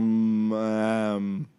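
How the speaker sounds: slow backwards nonsense words; saying the name reversed; backwards speech. Shown as a demonstration. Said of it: "I tried to just say that backwards".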